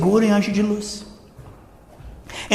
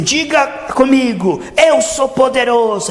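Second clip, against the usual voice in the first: slow, higher call to repeat after him; mock preacher's command; 4 semitones higher than usual. The paid preacher opening at the pulpit, in a slow showy call. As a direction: lead the crowd like a showy preacher. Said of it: "disse assim".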